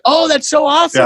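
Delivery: high, bright, over-eager gush; gushing fake enthusiasm. Wife playing along with the lie, high fake gush. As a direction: chirp it like a polite wife going along with a lie. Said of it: "And she's like".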